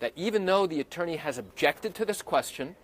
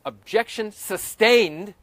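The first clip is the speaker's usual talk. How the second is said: judge ruling; 4 semitones higher, 4 dB louder, slower than usual. Retold or imitated. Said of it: "turn around and say".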